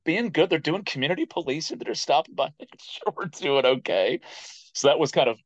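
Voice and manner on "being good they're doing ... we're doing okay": reassuring himself. Retold or imitated. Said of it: "I'm like".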